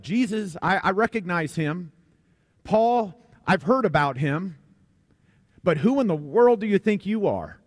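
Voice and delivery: a lightly voiced evil spirit, challenging the exorcists; emphatic demon retort. Preacher voicing the demon's challenge to the exorcists, mildly emphatic. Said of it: "It's emphatic in the Greek language".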